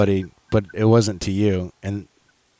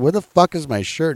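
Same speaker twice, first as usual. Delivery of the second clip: higher-pitched retold question; baffled demand; 7 semitones higher than usual. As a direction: demand it in bewilderment, pitch lifted. Retelling demand for missing shirt.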